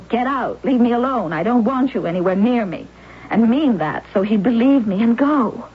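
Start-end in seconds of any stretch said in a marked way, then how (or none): 0.1-2.9 a mild, understated telling-off; imagined dismissal. Retold or imitated. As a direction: says in passing how she might tell him to go, not yet meaning it. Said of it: "I could say".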